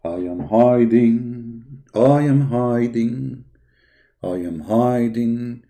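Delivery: slow, sing-song taunt of the hiding caller; mock hiding voice. Streamer taunting the silent caller, slow mock whimper. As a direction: drag it out like a kid hiding from a debate. Mocking the caller who won't call.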